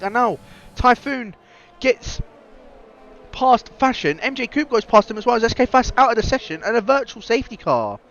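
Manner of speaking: hoarse, cracking commentator voice; croaky voice. Real, not acted. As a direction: voice going croaky mid-call. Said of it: "bit of a croaky voice".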